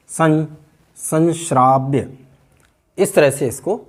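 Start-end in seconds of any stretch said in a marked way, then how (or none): 0.1-2.2 "संश्राव्य" said slowly with a palatal n; palatal nasal. Shown as a demonstration. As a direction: draw out san before shraavya in "संश्राव्य". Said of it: "इसका सही उच्चारण होना चाहिए". ("संश्राव्य" में तालु वाला न)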